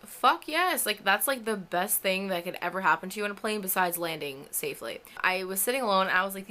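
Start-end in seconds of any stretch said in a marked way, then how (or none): 0.0-0.8 high, loud eager blurt; eager yes. Retold or imitated. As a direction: jump at the offer. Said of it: "And I was like".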